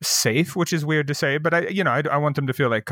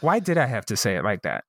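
lower, muted self-questioning; retold self-reproach; 3 semitones lower than usual. Speaker questions own remark to the manager, lower self-reproach. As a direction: replay asking yourself with mild regret. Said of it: "one of the moments that I was like".

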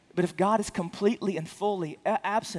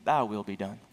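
a hint of God's voice, much lower; God's verdict; 8 semitones lower than usual. Preacher voicing God's answer to the sinner, low and grave. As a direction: drop the pitch low as God pronouncing it. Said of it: "or God will say".

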